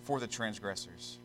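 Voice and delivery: solemn, measured scripture reading. Real, not acted. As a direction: read the verse out with deliberate pauses.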